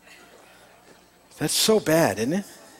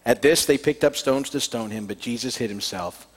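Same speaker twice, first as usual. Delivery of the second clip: earnest, measured Bible reading aloud; scripture reading. Acted. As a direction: read the Gospel to the congregation. Reads the Gospel passage aloud.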